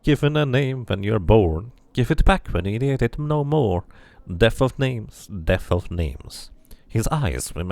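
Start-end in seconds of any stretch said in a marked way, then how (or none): 0.0-6.5 louder lilting recital of an eerie dustman; sing-song dustman chanting his creed. Acted. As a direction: intone it like a gravekeeper's rhyme.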